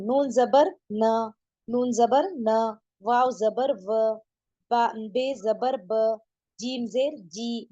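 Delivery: syllables spelled out slowly; slow spelling drill. Shown as a demonstration. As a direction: spell each letter slowly for pupils. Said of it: "teacher spelling drill". (बहुत धीरे हिज्जे)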